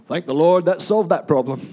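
chuckling through the joke, amused; laughing. Real, not acted. Preacher joking with the congregation about blowing up the car, laughing. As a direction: laugh the words out over your own silly answer.

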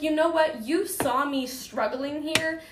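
reliving the moment she lost her temper; retold yelling. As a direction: snap back at her, heated. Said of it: "I started yelling at her".

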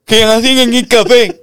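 high, slow, probing question; suspicious friend on speaker. Retold or imitated. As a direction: drag it out like a loaded trap. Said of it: "Yo te llamo a ti".

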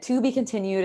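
mildly dramatic teaser; lightly hammed-up cliffhanger. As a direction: deliver it like an episode's closing caption. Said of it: "It's very dramatic".

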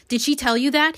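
high, accusing question; hissed. Acted. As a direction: demand an answer, mildly hissing. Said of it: "he hisses at her".

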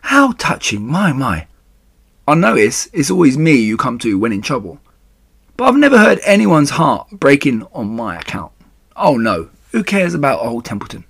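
scornful rat, lightly voiced; Templeton, sarcastic. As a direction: sneer at the sob story, then sulk.

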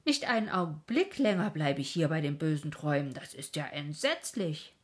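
can't stand another moment; horrified cry. Acted. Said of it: "drängte er sich mit Gewalt zur Türe hinaus ... und rief".

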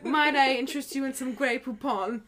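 lightly mock-refined offer; a touch of put-on grandeur; princess hostess. Shown as a demonstration. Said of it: "you speak like this".

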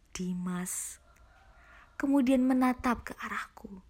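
hushed, moody storytelling voice; horror story narration. A narrator's reading. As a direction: read it like a spooky tale. Reads horror story aloud. (narasi cerita horor yang mencekam)

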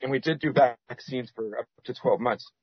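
talking through hiccups; hiccuping. Real, not acted. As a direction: hiccups breaking in. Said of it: "I'm hiccuping".

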